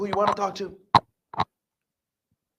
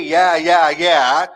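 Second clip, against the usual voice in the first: louder, dismissive yeah yeah; appeasing yeahs; 9 dB louder, much slower than usual. Retold or imitated. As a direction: brush them off politely. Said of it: "to appease them".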